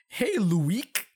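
"Luik" said high, as loo-EEK; misspelling read literally. Shown as a demonstration. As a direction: squeal "Luik" in two syllables, mocking the typo. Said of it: "It's, it's Luke, but".

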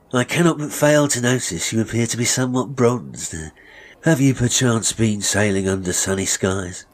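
ingratiating barber's small talk; lightly voiced courteous barber. Barber sounding out a bronzed customer, ingratiating. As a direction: make polite, flattering enquiry.

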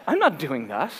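reluctant refusal at everyday volume; retold first refusal. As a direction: refuse it without raising your voice.

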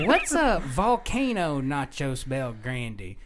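slow, stretched-out baffled question; clueless customer. Retold or imitated. Woman asking the counter kid seconds later, slow bafflement. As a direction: sound out the menu name slowly.

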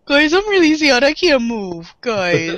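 whiny puppy-voiced Batman; pup dog voice. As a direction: whimper like a sad puppy. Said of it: "my pup dog voice".

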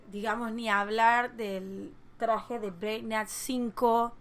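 muffled behind a hand; hand over mouth. Real, not acted. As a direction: speak through your hand. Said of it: "me puse la mano en la boca".

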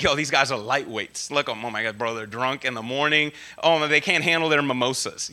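low, lazy scoffing bro; mocking bro voice. Preacher voicing the mockers at Pentecost, low mocking bro voice. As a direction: sneer at them like a frat guy. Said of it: "So they're saying".

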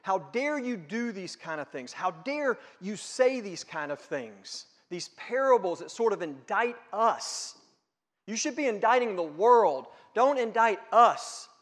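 a touch of outraged accusing; rising mild mock protest; mock indignation. Pharisees challenging Jesus, mildly indignant and building. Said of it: "They were questioning his authority".

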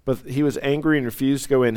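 fast, brisk repeat of "angry"; rushed reread. Shown as a demonstration. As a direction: hurry through the verse again. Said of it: "repeats the line faster".

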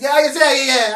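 high, loud rapid hammed-up yeahs; mock impatient yeah. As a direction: brush him off loudly and high. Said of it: "he said".

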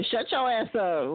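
slow, deliberate dismissal; catchphrase, drawn out. Shown as a demonstration. Friend drawling a catchphrase, slow and deliberate. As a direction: savor the line as a signature. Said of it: "I just can't say it no more".

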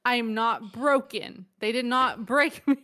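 mock defiant. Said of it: "Why can't you say that with a straight face".

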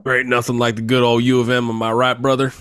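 hint of a Southern good-ol'-boy accent. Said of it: "In a Southern accent".

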